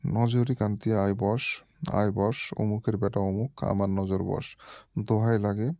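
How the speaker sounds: slow, measured chant of a mantra; mantra recitation. Shown as a demonstration. Reading the mantra aloud for viewers, slow incantation. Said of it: "আমি এটা, আহ, পড়ে শোনাবো".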